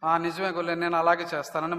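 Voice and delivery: low, soft agreement; meek submission. Acted. Believer answering the giant in translation, meek submission. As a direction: drop the voice and give in.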